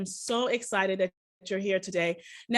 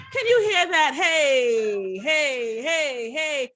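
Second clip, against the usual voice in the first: laughing excitedly; 3 semitones higher, 5 dB louder, much slower than usual. Real, not acted. Excited host starting dance music.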